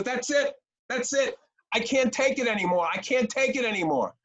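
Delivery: mock a teenage daughter blowing up at dinner; retold fit. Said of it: "she had, like, a fit".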